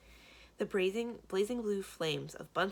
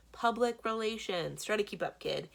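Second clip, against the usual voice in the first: exasperated; 5 semitones higher, 5 dB louder than usual. Acted. Salesman villain explaining to the kid, exasperated. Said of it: "exasperated sigh".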